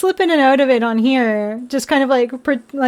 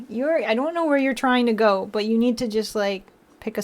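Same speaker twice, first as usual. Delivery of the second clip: quiet gentle chiding; soft talk to a pet; soft to the cat; 7 dB quieter than usual. Real, not acted. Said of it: "I don't know where you're headed".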